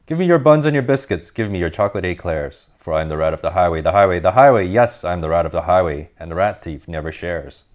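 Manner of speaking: lightly voiced swaggering rat, chanting his demands; a hint of a greedy bandit bragging; boastful highway rat.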